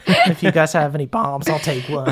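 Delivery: laughing through tears. Acted.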